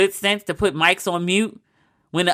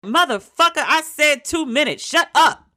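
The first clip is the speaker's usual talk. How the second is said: mock Sam Jackson yelling at a debater; Sam Jackson impression; 8 semitones higher than usual. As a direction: bark it like an enraged host. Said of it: "they should have Sam Jackson".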